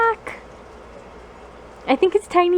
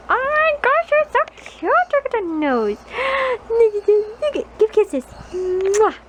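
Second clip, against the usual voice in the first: gushing over the dog; 6 semitones higher than usual. Real, not acted. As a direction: squeal over how cute the puppy is.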